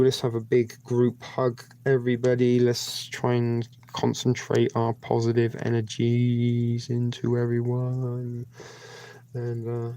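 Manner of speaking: group prayer. Acted. Leads a mock group prayer.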